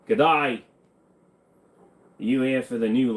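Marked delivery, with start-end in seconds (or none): 0.1-0.6 Aussie greeting. Pretend. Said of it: "Trying to learn the Aussie accent".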